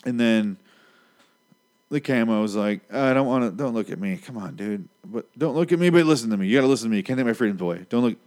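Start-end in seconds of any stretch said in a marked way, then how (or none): 2.9-8.2 mock-frightened pleading, jumping up in pitch midway; acted scared. Camo begging not to be looked at, acted scared. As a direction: plead to be left alone, then insist on being heard. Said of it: "like, so scared".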